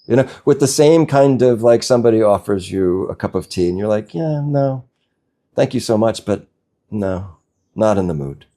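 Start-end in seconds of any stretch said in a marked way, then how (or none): 4.1-8.5 polite refusal. Pretend. Polite refusal of offered tea.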